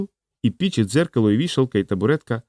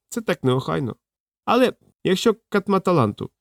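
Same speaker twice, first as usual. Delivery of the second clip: put-on higher, woeful old man's voice; mournful little old man; 6 semitones higher than usual. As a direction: lament like a washed-up old wizard.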